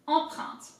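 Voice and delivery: "empreinte" with French nasal vowels; careful French demonstration word; French pronunciation. Shown as a demonstration. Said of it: "Let's break it down".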